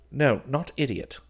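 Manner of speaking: mildly object, gently; gentle protest. A narrator's reading. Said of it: "remonstrated Clifford gently".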